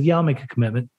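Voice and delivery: mean it this time, quietly; earnest promise. Retold or imitated. Answering the counselor's serious question, earnest and low. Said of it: "No, seriously".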